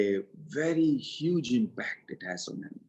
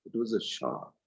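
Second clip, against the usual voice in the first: softer repeat of "It was a shock."; softer echo; 6 dB quieter than usual. Shown as a demonstration. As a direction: let "It was a shock." sink in softly. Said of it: "And it was a shock".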